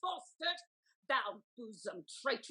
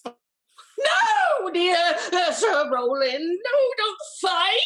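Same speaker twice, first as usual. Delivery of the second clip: frantic pleading; 3 semitones higher, 9 dB louder, much slower than usual. Acted. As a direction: beg him desperately to stop. Lady begging him not to duel.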